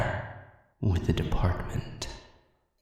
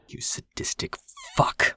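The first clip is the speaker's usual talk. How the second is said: anguished cry. Acted. Friend cries out at enemy.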